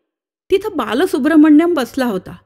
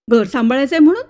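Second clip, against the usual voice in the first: incredulous echo; faster than usual. Acted. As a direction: echo घर सांभाळायचंय म्हणून with a rise on म्हणून. Narrator echoes in disbelief.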